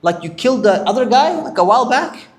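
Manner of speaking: high, loud accusing cry; shouting accusation. Retold or imitated. Israelite man shouts accusations at Musa, loud and high. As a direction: shout him out in front of everyone. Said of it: "He shouted out".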